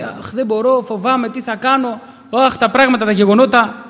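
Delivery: a fretful, anxious sigh of a voice; mock fainthearted whining. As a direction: whine like a worried, weak-hearted believer. Preacher voices fainthearted brother.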